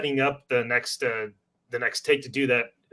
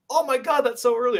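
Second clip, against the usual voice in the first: mock shock; 12 semitones higher, 3 dB louder than usual. Mocking someone shocked at the hours.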